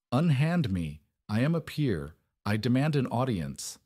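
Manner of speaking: a hint of an outraged noble protesting; shrieked. Dragged-in duke demanding an audience, mild shriek. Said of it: "Arthur shrieked".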